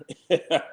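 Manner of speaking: brief mocking laugh; short laugh. Real, not acted. Streamer ribbing the speaker he is watching, short laugh. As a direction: laugh at your own jab. Mocking Ben Crump's way of talking.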